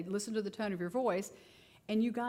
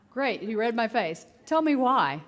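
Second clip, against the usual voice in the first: emphatic praise; 4 semitones higher, 9 dB louder, slower than usual. Retold or imitated. Therapist praising, pressing kid.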